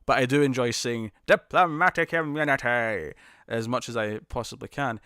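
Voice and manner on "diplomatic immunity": drawn-out, mock South African accent. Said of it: "I think a South African accent is".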